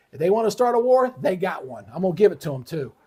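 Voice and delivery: heated, rising anger; getting worked up about the fight; real angry outburst; got mad. Real, not acted. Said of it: "Now, see, I got myself mad".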